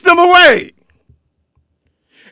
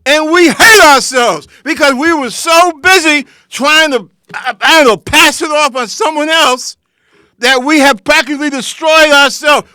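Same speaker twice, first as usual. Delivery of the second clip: mock confession; 2 semitones higher than usual. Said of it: "you tell the world".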